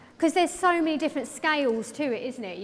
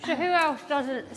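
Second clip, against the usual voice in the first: talking around a hairpin; words muffled by a pin held in lips; pin in mouth; 2 semitones higher than usual. Real, not acted. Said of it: "sorry, I've got a pin in my mouth".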